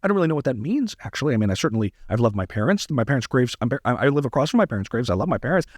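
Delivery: lightly voiced Tucker Carlson giving wedding vows, halting and evasive; a hint of a rambling, dodging Tucker; Tucker Carlson impression. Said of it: "wouldn't it be funny if Tucker Carlson was giving his wedding vows".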